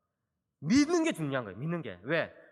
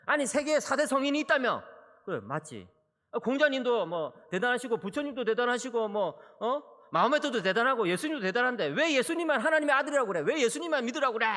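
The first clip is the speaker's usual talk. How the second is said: imitating an arguing son; 3 semitones higher than usual. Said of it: "막 저한테 따지는 거예요".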